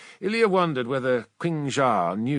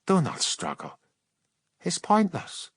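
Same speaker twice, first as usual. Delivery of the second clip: cold warrior mystic; 7 semitones higher than usual. Acted. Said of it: "The witch glanced coldly at him".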